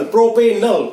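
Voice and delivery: प्रोपेनल with a short 'nal' ending; correct aldehyde pronunciation. Shown as a demonstration. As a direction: finish प्रोपेनल on 'nal', not 'nol'. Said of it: "तो नल बोलेंगे simple". (प्रोपेनल, अंत में छोटा 'नल')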